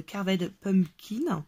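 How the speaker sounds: "Carved Pumpkin" said slowly in a heavy French accent; French-accented English. Real, not acted. Crafter naming her ink colour to viewers, in slow French-accented English. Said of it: "Vous avez vu mon super accent".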